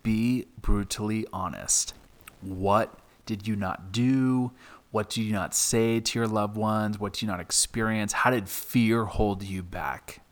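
put-on measured German-accent prompting, understated; thick German accent. German teacher pressing the narrator with questions, German accent. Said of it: "in this thick German accent".

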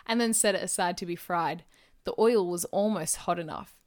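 measured audiobook-style reading; story narration. A narrator's reading. Narrator reading a detective novel to listeners, storytelling voice. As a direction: read the mystery aloud, phrase by phrase. Reads their crime novel aloud.

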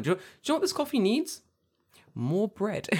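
high excited. Retold or imitated. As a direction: squeal the craving out quickly. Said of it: "and I'm like".

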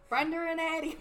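mock Long Island accent on Brenda and Eddie. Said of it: "That's that Long Island accent".

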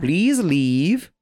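high, slow, stern official voice; a hammed-up guard turning someone away; mock border guard. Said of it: "Did they just be like".

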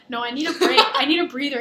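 mock out-of-breath whine; whiny protest. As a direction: demand a rest like a tired hiker. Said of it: "I'm like".

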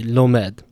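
lomed, stressed on the last syllable, lo-MED; stress on final syllable. Shown as a demonstration. Teacher showing Hebrew word stress, lomed stressed on the end. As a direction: land the weight on -med in lomed. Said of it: "The stress there is on the final syllable".

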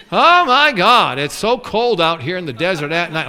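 whining Israelites. Acted. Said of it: "whining and complaining".

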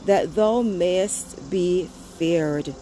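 slow, solemn reading of the psalm; scripture reading. Acted. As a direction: read the verses reverently, unhurried. Reads Psalm 130 aloud.

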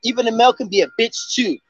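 a hint of a hype host intro; podcast intro hype. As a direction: rattle off the greeting like a host. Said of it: "How does it go?".

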